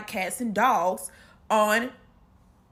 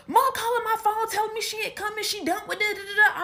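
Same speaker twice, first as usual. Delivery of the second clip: aggrieved sister; 10 semitones higher than usual. Retold or imitated. Imitating sister upset that mom isn't coming, high complaint. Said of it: "She's like".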